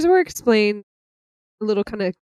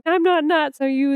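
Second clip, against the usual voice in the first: higher pitched, heated retort; mock raging Luke; 8 semitones higher than usual. Luke snapping back at Han mid-fight, mock raging. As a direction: fire it back, half-mad. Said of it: "Luke's rage here".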